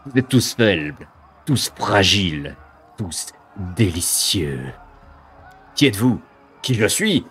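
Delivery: sneering monster voice with cackles; mocking demon. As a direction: taunt them from above.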